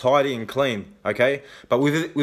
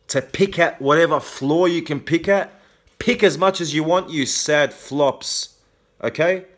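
higher, scornful angry jab at critics; angry taunt; 4 semitones higher than usual. Real, not acted. Taunting critics who leave comments below, real heated anger. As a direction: spit it out at the commenters, genuinely angry. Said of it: "Yes, I'm angry".

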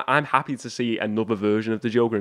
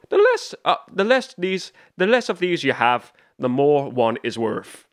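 Barry Keoghan; 4 semitones higher, 3 dB louder than usual. Retold or imitated. Fan imitating the Joker's riddle to Riddler, mock Irish accent. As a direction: have a rough go at an Irish accent. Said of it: "in this Irish accent".

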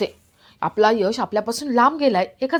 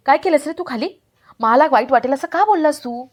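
mildly indignant, higher-pitched questioning; reproachful questions with lifted pitch; accusing; 4 semitones higher than usual. Acted. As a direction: confront him with a hurt challenge. Wife confronts him in a quarrel.

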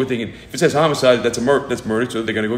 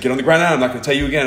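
barked order, louder and higher; retold police command; 4 semitones higher, 3 dB louder, much faster than usual. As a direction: bark it like a cop with a rifle. Armed officer ordering father down.

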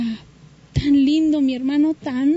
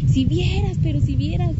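high, thrilled retelling of his news; excited brother; 6 semitones higher than usual. Retold or imitated. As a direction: lift the voice like a delighted kid. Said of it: "y bien contento".

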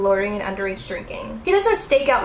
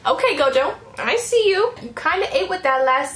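higher, playful praise; hyped; 6 semitones higher than usual. Real, not acted. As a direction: cheer him on. Hyping the character.

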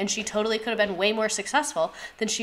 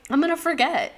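higher and louder, half-laughing insistence; emphatic repeat; 8 semitones higher, 5 dB louder than usual. Real, not acted. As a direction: throw the repeat up high and loud, owning it. Repeats line more emphatically.

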